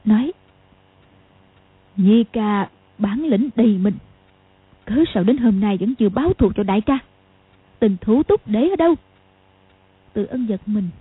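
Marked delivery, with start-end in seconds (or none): 2.0-8.9 grinding out words. Acted. Sister pressing her brother about avenging the eldest, grinding out words. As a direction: bite down on each word in reproach. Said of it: "bỗng gằn giọng".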